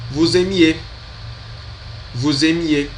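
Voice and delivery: Vous aimiez said voo-zeh-MYEH, linked; Vous aimiez with the s joined, voo-zeh-MYEH; model pronunciation. Shown as a demonstration. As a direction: repeat Vous aimiez for practice. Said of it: "Pronunciei também para vocês treinarem".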